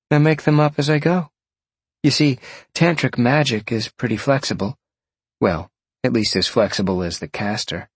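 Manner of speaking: a hint of an easygoing young sorceress explaining; lightly voiced woman, slightly lifted pitch; lightly voiced Jolene. Narrator voices Jolene explaining her magic.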